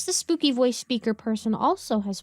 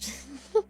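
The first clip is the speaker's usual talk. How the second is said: small giggle; 3 semitones higher, 5 dB quieter than usual. Acted. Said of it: "I can't help but giggle slightly".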